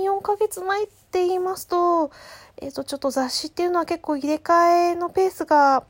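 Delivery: sing-song shop-phone politeness; customer service voice. Retold or imitated. Clerk explaining politely. (高めの丁寧な接客口調)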